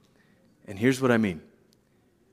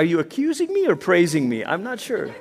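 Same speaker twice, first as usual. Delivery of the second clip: laughing, puzzled reply; bemused divine voice; amused God; 2 semitones higher than usual. Retold or imitated. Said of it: "you can't help but laugh".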